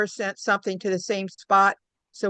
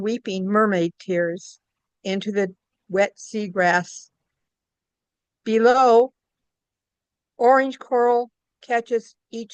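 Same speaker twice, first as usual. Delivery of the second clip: measured poem recitation with pauses between lines; poetry reading. Acted. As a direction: read your poem line by line, unhurried. Reads own poem aloud.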